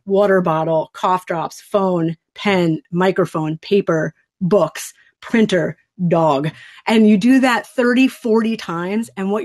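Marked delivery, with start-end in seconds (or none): 0.0-6.5 slow, even naming of objects one by one; calm labelling demo. Shown as a demonstration. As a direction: set each object down with its own small pause. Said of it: "it goes like this".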